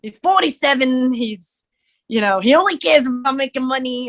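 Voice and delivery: put-on a forty-seven-year-old money-minded Brooklyn guy sizing himself up; Brooklyn character voice. Building the Doctor Sex character with friend, Brooklyn accent. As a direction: voice pushed away from her own, mock Brooklyn. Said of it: "he's talking like this".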